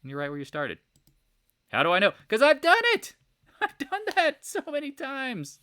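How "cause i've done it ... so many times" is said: much higher laughing admission; laughing confession. Real, not acted. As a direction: laugh at his own mistakes.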